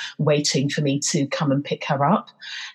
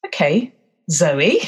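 emotional. Real, not acted. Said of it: "I'm feeling very emotional right now".

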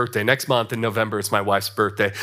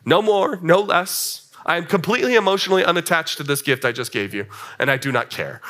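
mock indifference. Husband waving away wife's thanks for a gift, mock indifferent. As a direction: brush off thanks like a dutiful, uncaring husband. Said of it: "my indifference toward giving her that gift".

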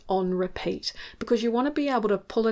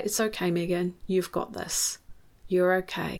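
softer, gentle self-talk; kind and supportive; 3 dB quieter than usual. Shown as a demonstration. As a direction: reassure yourself kindly, without collapsing. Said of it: "I'm talking to myself in a really kind, supportive, not collapsing".

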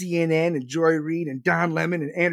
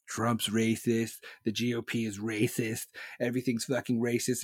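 mock press secretary; 7 semitones lower, 8 dB quieter than usual. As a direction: sneer at her slogans quietly. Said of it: "she did in the last three years".

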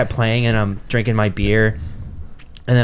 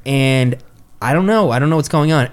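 retold bewildered panic; 6 semitones higher than usual. Retells his bewildered panic to friends.

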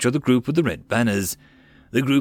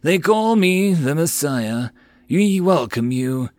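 serene cult leader; 5 semitones higher, slower than usual. Acted. Messiah welcomes them.

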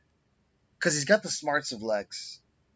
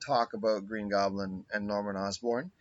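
voice cracking; 3 semitones lower than usual. Real, not acted. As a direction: voice cracks mid-sentence. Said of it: "my voice cracked".

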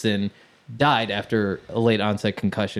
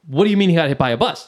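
quick, higher mock-panicked question; retold parental panic, hurried; freaking out; 4 semitones higher, 4 dB louder, faster than usual. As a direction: imitate alarmed parents, talking fast. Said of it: "my parents are freaking out".

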